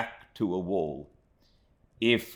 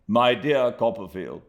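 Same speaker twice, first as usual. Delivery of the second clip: excited Micawber; 7 semitones higher, 8 dB louder than usual. A narrator's reading. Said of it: "bursting into a state of much excitement".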